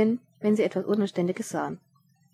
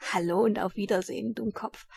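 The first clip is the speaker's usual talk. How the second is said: smug grin; 4 dB quieter than usual. Acted. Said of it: "grinste der Verbrecher selbstgefällig".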